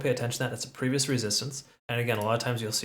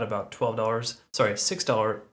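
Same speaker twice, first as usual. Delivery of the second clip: stiff, effortful speech from a sore jaw; words slightly labored, jaw aching. Real, not acted. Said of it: "talking is hard today".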